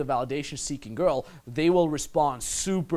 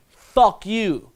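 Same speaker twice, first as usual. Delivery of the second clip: retold insult; 6 semitones higher, 8 dB louder than usual. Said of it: "Until I say".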